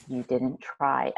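slow, low echo of the coach; voice in head. Retold or imitated. Coach remembered in trainee's head, slow low echo. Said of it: "I had Thomas in my head".

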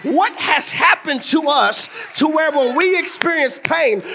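preaching hard to the church family; full-force preaching. Acted. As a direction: build the congregation up, voice lifted.

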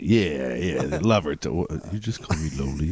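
put-on mope it out like a sulking kid; pouting. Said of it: "He pouted".

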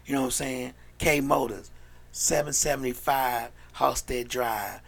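measured tagline and address read; mock radio commercial. Host giving the car lot's address, mock commercial sign-off. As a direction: close out the local car ad. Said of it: "Trying to practice my commercial shits".

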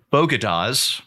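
"Bogotas" for bodegas, said as BO-guh-das; botched pronunciation. Retold or imitated. Host quoting a speaker's failed bodegas, "Bogotas" said botched. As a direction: say "Bogotas" slowly, mangling the word bodegas. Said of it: "she tried to say bodegas and failed".

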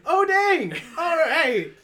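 laughing. Retold or imitated. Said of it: "I'm like".

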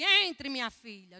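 loud, stretched, glad invitation; joyful welcome. Retold or imitated. Owner receiving the missionary with joy, welcoming. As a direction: welcome her in loudly, drawing it out. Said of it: "Já recebeu com alegria".

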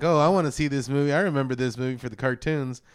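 mock fan voice. Cohost imitating nostalgic fans, excited mock voice. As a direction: imitate a disappointed cartoon fan. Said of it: "for people who are like".

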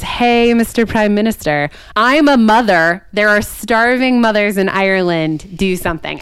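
half-mocking a queen demanding action; mock queen plea. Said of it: "and says".

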